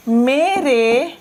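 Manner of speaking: very slow, each word split by pauses; slow word-by-word dictation, falling on बेटा. Shown as a demonstration. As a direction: dictate one word at a time. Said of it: "आप कह रहे हैं".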